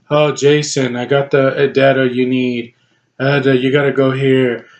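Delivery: lightly mocking a sleepy, drugged-sounding actress; drowsy imitation. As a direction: drag the words like you're half asleep. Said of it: "literally sounds like she's been no-dosed".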